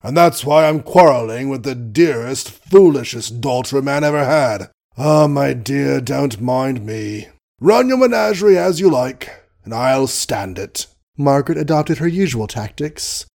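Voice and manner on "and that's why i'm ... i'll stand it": put-on blustering old colonel voice; gruff old colonel. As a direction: play the grumpy doting father.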